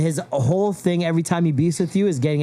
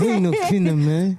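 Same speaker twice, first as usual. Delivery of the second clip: through the teeth. Shown as a demonstration. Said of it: "talk through your teeth".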